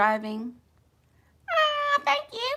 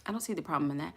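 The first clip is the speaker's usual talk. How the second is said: softer echo; 4 semitones lower, 12 dB quieter, much faster than usual. Real, not acted. Repeats answer softer.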